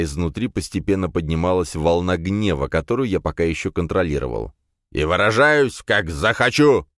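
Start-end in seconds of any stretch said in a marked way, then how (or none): 4.9-6.9 put-on loud, drunken boss bellowing; blustering bark. A narrator's reading. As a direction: shove the words out, slow and loud. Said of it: "гаркнул он".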